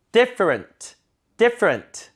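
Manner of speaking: different as "DIF-rnt", falling; front stress. Shown as a demonstration. Teacher leading repetition, different with strong front. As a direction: stress the start of different, reduce the back. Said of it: "앞에 강세니까".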